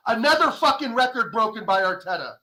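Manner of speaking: a strained, near-crying yell; fuming fan near tears over the record; bitter angry shout. Real, not acted. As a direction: spit it out in disgust. Bitter rant about records.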